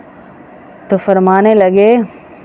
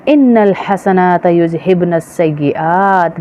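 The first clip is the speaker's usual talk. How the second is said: slow, measured verse recitation; scripture quoted slowly and deliberately; Quran recitation; slower than usual. Real, not acted. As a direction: recite the Arabic verse with drawn-out syllables.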